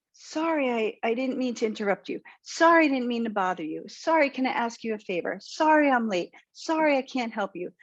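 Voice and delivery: mock over-apologizing; apologetic. Shown as a demonstration. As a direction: pitch up on each sorry, then trail down. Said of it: "All of these statements can be said without the word sorry".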